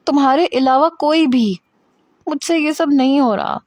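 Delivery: overwhelmed, pouring out her despair; distressed, tearful. Acted. Hira tearfully tells Armaghan she can't cope.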